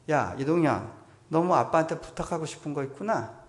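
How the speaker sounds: 이름을 크게 부르며 장난스레 떠보기; 뭔가 눈치챈 듯 크게 캐묻기; 큰 소리로 부르기. Retold or imitated. 아들을 부르며 캐묻는 아빠. (아들을 떠보는 아빠, 크고 장난스러운 목소리)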